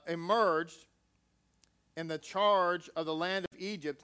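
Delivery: measured, solemn reading of scripture; steady formal Bible reading. Acted. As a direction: read it out like a text from the pulpit. Reads scripture aloud.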